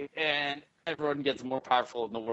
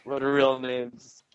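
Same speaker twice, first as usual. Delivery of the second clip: lightly voiced stoned fan of a band; dreamy burnout dude, drifting; stoned hippie; 2 semitones higher, 4 dB louder than usual.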